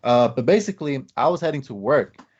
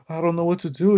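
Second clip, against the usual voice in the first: mock panic; 5 semitones higher, faster than usual. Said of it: "He was freaking out".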